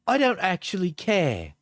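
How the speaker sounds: lightly mocking British accent; put-on accent. Reading an ex's texts aloud, put-on British accent. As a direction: read it back in an affected British voice. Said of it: "when I'm doing the accent".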